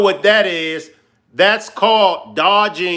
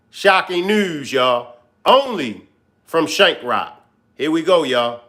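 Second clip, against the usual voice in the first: clickbait video narrator. Acted. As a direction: sell the shocking news. Hyping shocking news.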